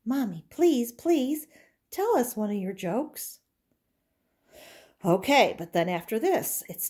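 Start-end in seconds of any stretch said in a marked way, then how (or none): 0.0-3.4 put-on high, pleading little girl; a doll girl begging Mommy for a joke, high. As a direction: beg sweetly.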